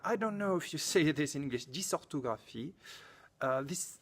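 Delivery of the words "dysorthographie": dysorthographie softer, in native French; French pronunciation. Shown as a demonstration. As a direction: say the term in French, a little softly. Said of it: "these are French words".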